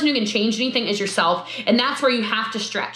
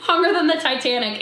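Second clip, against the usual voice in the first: laughing; 2 semitones higher than usual. Real, not acted. Laughing at the long Zoom.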